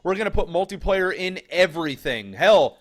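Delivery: high, loud mock publisher pitch; mock sales pitch. Caster mocks publishers selling multiplayer, hammed-up sales pitch. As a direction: push it like a hammed-up game publisher.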